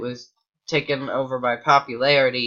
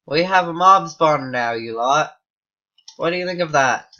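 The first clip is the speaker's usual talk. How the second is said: a panicked, louder, higher put-on British accent; crappy British accent; 4 semitones higher, 7 dB louder than usual. Greeting viewers in a panic with a crappy British accent. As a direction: blurt it out in a bad British accent. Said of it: "I just put on my crappy Britain, British accent".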